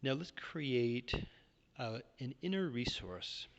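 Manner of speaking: calm, measured Yoga Nidra guidance; guided meditation. Real, not acted. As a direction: guide listeners gently into rest, pausing between phrases.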